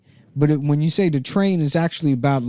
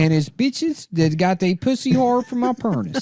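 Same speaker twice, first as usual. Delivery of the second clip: lightly put-on Taiwanese accent, higher; a hint of a Taiwanese accent; 8 semitones higher than usual. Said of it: "It's a traditional Taiwanese accent".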